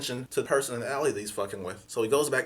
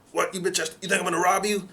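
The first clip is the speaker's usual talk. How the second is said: angry stranger; 6 semitones higher than usual. Retold or imitated. Stranger yelling at him by his car, hostile shout.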